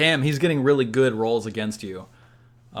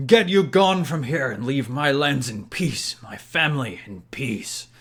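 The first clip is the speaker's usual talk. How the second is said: mildly raised, defiant shout fading at the end; old man shouting back; 3 semitones higher than usual. Acted. Old man ordering an intruder off his lands, shouting back. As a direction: call it out firmly, easing off on the last phrase. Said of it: "The old man shouts back".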